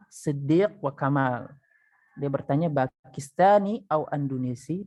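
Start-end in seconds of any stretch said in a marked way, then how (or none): 2.7-4.8 "Pakistani au Andonesi" rising as a question; questioning intonation. Shown as a demonstration. Siddiq asking Hasan his nationality, questioning intonation. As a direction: ask "Pakistani au Andonesi" by tune alone. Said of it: "intonasinya ini bertanya".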